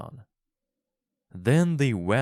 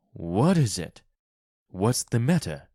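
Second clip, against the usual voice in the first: a touch louder, alarmed; startled cry; 5 dB louder than usual. A narrator's reading. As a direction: woken husband asks his wife, mildly alarmed. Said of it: "Mister White cried".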